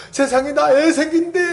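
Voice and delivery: high-pitched, thrilled announcement; overjoyed gossip. Acted. Acting Sarah telling everyone she is expecting, overjoyed. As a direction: spread the happy news, pitch jumping up. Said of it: "소문내고 막 좋아갖고".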